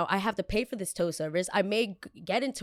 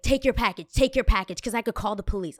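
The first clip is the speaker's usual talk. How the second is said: mock clerk threat; 3 semitones higher, 5 dB louder than usual. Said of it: "she's like".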